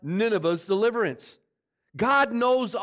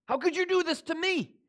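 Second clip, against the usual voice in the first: whining Jonah; 10 semitones higher than usual. Acted. Preacher voices self-pitying Jonah.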